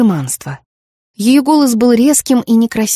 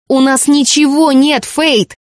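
shouted at her daughter; 5 semitones higher, slower than usual. Acted. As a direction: cry it out in desperation. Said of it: "прокричала Миртл". (мать прокричала дочери в отчаянии)

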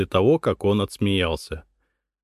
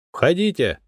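distant hollow call; voice from a deep well; 6 semitones higher than usual. Acted. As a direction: call from far away as if from a well. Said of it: "Словно из глубокого колодца отозвался голос".

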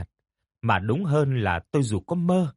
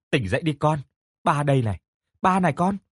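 higher-pitched urging, lightly voiced father; father waking daughter; 5 semitones higher, faster than usual. Father calling his daughter out of a nightmare, urging. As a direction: coax her awake with mild urgency.

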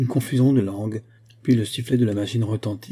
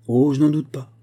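higher-pitched, lightly sardonic retort; mocking; 4 semitones higher, 4 dB louder than usual. A narrator's reading. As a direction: answer with a touch of mockery. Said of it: "d'un ton narquois". (ton légèrement narquois)

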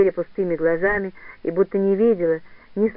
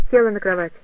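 ordinary delivery, nothing marked

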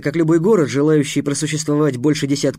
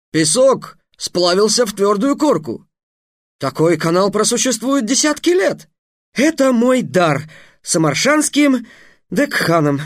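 high, slow lofty declaration; a hint of a grand young wizard; solemn young mage; 7 semitones higher than usual. Trix presents his gift.

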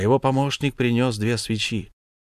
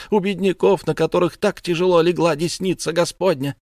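indignant outcry; 8 semitones higher, 4 dB louder than usual. Acted. Mother threatens judges.

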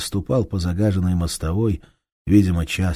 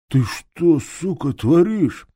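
higher, sharp accusation; angry thief; 9 semitones higher, 4 dB louder, slower than usual. Acted. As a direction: turn on your woman in anger.

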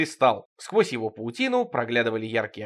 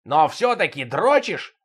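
accusing; 3 semitones higher, 3 dB louder, slower than usual. Acted. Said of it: "накинулся на него весь коллектив".

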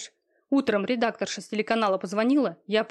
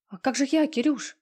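hoarse squeak; 4 semitones higher than usual. Acted. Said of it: "Сипло пропищала она".

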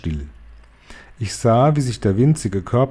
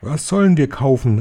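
higher, eager crowd question; eager calling; 4 semitones higher than usual. Acted. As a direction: call it out, hungry to know. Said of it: "riefen sie".

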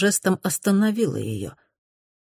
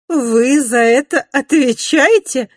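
high, loud, slow disbelief; incredulous repeat; 10 semitones higher, 8 dB louder, slower than usual. A narrator's reading. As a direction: echo her words in shock. Mrs Glenorm incredulous.

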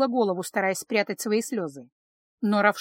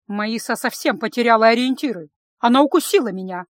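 louder, raised complaint; indignant outburst; 6 dB louder than usual. Acted. Lisa complaining to her brother about the bite, loud and indignant. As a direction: shout the grievance at him. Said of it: "гневно глядя на брата".

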